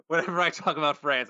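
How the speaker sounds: lightly put-on French accent. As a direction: defend yourself in a fake French accent. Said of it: "that's my accent".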